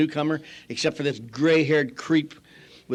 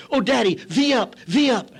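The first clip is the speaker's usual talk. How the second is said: higher-pitched imitation of gushing daughters; mock girlish coaxing, pitched up; wheedling daughters; 6 semitones higher than usual. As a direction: play a daughter sweet-talking Daddy. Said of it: "My daughters used to get money".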